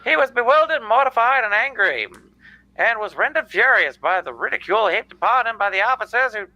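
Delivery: put-on old-time radio narrator voice; 1940s radio announcer. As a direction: read it like a vintage newsreel. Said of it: "I am doing the nineteen forties radio guy".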